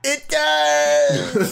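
high, whiny protest; whiny insistence. Pretend. Patient insisting to the healer, high whiny protest. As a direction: squeak it like a hurt kid.

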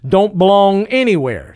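snapped retort. Acted. Texan snapping at the general, curt and dismissive. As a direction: bite off the answer at him. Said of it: "snapped the Texan".

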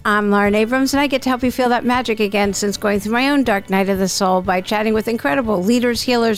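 upbeat announcer read over music; podcast intro read. Acted. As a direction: sell the show like a host intro.

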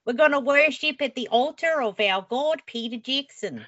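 mock zeal for Peter Jackson; mock worship. Guest mocks New Zealanders worshipping Peter Jackson, hammed-up.

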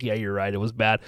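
low, soft, sheepish concession; beaten dog. Retold or imitated. Conceding to the friend who hated it, meek and defeated. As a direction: give in quietly like a scolded dog. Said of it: "I'm like a beaten dog".

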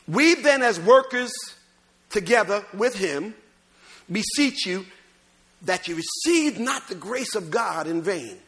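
emphatic, measured scripture reading. Real, not acted. Preacher reads verse to congregation, emphatic scripture reading.

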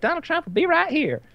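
singer announcing. Retold or imitated. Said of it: "she's like".

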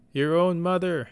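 high, loud screech. Acted. Mother screeching at her son as he flees. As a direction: screech it after him in outrage. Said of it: "she screeched".

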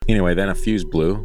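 measured scary-story reading; story narration. A narrator's reading. Host reading a listener's attic story, narrating. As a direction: read the creepy tale aloud with lifted, deliberate phrasing.

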